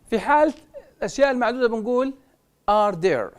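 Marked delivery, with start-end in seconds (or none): none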